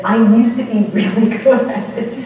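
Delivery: laughing through the quote as it comes out; a sheepish laugh on good at it; chuckling while owning up to a bad habit; laughing confession. Brother admits he liked criticizing.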